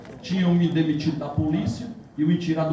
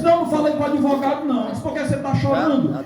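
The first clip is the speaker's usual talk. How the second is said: retold agitated exchange; 8 semitones higher, faster than usual. Retold agitated phone exchange with wife.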